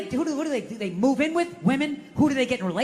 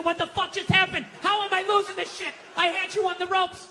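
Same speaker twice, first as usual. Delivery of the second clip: baffled disbelief; 6 semitones higher than usual. Retold or imitated. Acts out baffled loser of argument.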